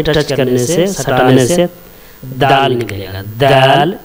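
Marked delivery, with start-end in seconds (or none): 3.4-3.9 दाल with the tongue tip on the upper tooth roots; letter demo. Shown as a demonstration. Teacher demonstrating the letter to the class, crisp d. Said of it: "जुबान की नोक को सटा करके".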